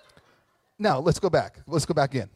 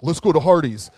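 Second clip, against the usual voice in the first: laughing suggestion; 9 dB louder than usual. Retold or imitated. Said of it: "They're like".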